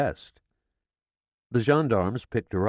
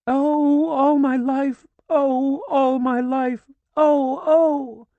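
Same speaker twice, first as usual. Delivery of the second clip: louder and higher, ever more piercing; piercing screams; 8 dB louder, much slower than usual. A narrator's reading. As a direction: wail it, building more piercing each time. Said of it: "More and more piercingly".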